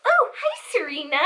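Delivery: high-pitched imitated hello, dropping on the name; friend's greeting. Voices friend arriving to greet her.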